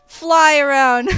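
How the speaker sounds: loud, high, stretched-out taunt; gleeful drawn-out shout; mock battle cry. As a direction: call it out slowly in playful triumph. Gloating while attacking bun girl.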